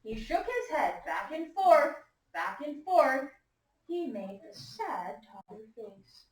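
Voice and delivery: slow, emphatic storytime reading with swinging pitch; story read-aloud to children. A narrator's reading. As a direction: read it to a class of young listeners. Reads picture book to class.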